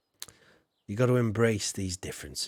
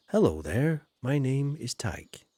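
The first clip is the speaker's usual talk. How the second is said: posh proper English. Retold or imitated. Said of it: "proper English thing".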